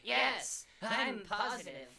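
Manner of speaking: high, loud quacking duck voice; Donald Duck voice. Acted. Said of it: "I can do Cancer Donald".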